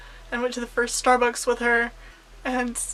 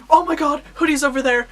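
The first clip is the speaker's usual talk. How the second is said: excited retold outburst, raised and louder at first; freaking out; 3 semitones higher, 4 dB louder than usual. Fan spotting a favorite YouTuber in line, retold freak-out. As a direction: blurt it out, mildly freaked out. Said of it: "I freaked out".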